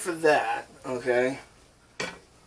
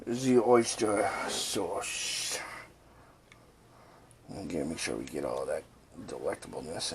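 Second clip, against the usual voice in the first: bad French accent; 2 semitones lower, 6 dB quieter than usual. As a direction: linger on it in fake French. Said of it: "a really bad French impression".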